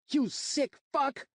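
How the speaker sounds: slow, high enraged scream. Acted. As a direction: scream it across the whole dorm. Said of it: "I screamed".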